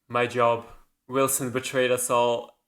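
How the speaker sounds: imitated cool, unmoved reply; cold. Miranda justifies shooting Wilson to Jacob, cold. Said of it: "The delivery is so cold".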